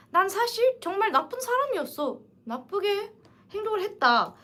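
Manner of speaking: a touch of Emma admitting she was awful; 엠마의 가벼운 고백 흉내; Emma's confession. Retold or imitated.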